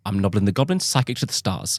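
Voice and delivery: lightly imitated Australian accent; Australian psychic. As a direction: introduce yourself as an Australian psychic. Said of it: "like, an Australian psychic".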